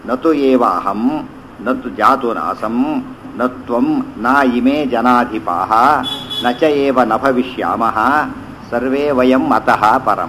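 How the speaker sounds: verse parsed slowly, phrase by phrase; measured teaching recitation; slow word-by-word recitation. Acted. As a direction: lay out each word of the shloka slowly for students. Recites verse split into words.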